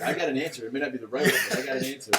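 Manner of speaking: laughing through the words; half laughing, cocky joke. Real, not acted. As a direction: chuckle as you boast. Joking about street therapy.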